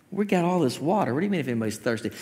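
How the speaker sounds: low, soft aside, questioning; mock the baffled onlookers under the breath; puzzled crowd. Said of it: "and they're like".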